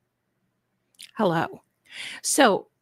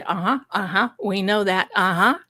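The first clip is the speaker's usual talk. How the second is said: mock knowing agreement; faster than usual. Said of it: "I want all of you to say".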